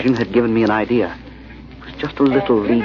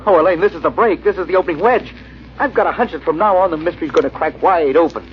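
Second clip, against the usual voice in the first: he's finally cracked the case; breathless hunch of a radio sleuth; excited; 6 semitones higher than usual. Acted. Finds the bill clue.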